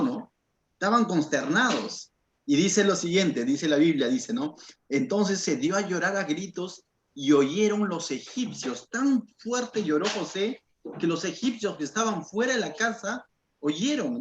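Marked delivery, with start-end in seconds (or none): 4.9-8.9 slow, weighty verse reading; scripture reading. Acted. Preacher reads the verse slowly to the church. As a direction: read the verse slowly, letting it land.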